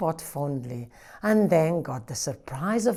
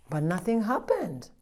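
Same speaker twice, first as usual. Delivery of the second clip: soft suspense whisper; whispered narration; 2 semitones higher, 9 dB quieter than usual. A narrator's reading. Storyteller whispering the letdown to the children. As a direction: whisper it to the listeners.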